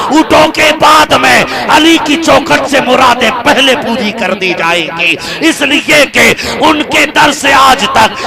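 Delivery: loud, ringing sermon delivery, slowing on the verse; full-force preaching. Acted. Preacher stirring the gathering, loud and ringing. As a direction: preach it out, rising to a shout.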